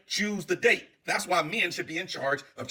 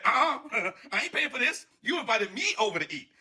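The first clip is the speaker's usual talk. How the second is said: laughing refusal; 3 semitones higher than usual. Retold or imitated. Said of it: "And he said".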